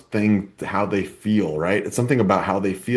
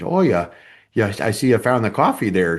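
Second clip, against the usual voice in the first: put-on Minnesota accent; 3 dB louder than usual. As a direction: lightly imitate a Minnesota coworker. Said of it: "she had a very thick Minnesotan accent".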